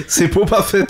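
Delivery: put-on high, loud joke German accent, laughing; accent allemand. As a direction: say it as a German, hardening the b's. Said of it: "Pourquoi j'ai fait un accent allemand?". (accent allemand pour rire, aigu et fort)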